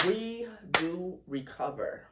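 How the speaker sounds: slow, tearful declaration; slow and teary, firm. Real, not acted. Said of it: "A little teary".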